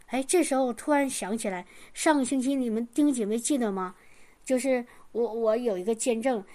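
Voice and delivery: usual speaking voice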